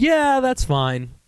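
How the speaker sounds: lightly put-on mom voice, high and drawn out; mom impression. Mom's reply retold in put-on voice.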